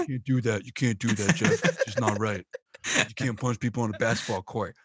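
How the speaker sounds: low, mildly reproving co-commentator reply; Mark Jackson. Retold or imitated. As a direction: lightly imitate a sportscaster scolding his partner, low. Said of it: "Mark Jackson do".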